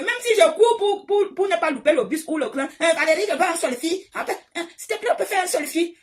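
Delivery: high eager fan voice begging for a selfie; pleading fan. Retold or imitated. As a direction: play a breathless fan chasing her. Fans voiced asking for selfies.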